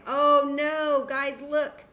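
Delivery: loud, high mock alarm; mock dismay. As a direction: play up the disappointment for kids. Mock dismay at dice roll.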